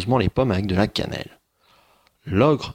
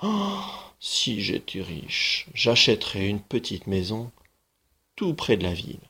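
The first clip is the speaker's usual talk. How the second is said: mild sigh; 3 dB quieter than usual. Acted. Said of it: "la mère soupirait".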